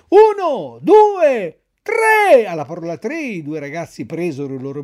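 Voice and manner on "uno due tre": loud, higher count to three, rising on tre. Acted. Pinocchio to Lucignolo, counting to three out loud. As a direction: call out the count boldly. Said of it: "cominciò a contare a voce alta".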